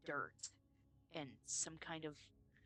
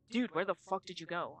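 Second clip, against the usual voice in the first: louder voice of a baffled friend; retold incredulous demand; 9 dB louder than usual. Friend asking the returning student where they went, raised incredulous voice. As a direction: demand an answer, mock-exasperated.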